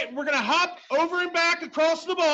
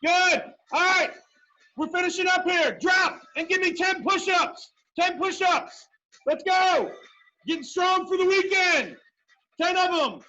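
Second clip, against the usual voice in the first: barking gym coach. Real, not acted. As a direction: call out orders like a drill sergeant. Coach barking workout orders.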